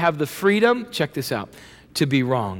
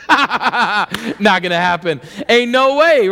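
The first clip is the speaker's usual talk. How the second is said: flat refusal; 4 dB louder, slower than usual. Pretend. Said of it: "What do we say?".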